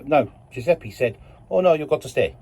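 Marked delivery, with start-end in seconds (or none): 1.5-2.4 lightly attempted, bad Italian accent; terrible Italian accent. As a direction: do a half-hearted Italian accent. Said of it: "That was my terrible Italian accent".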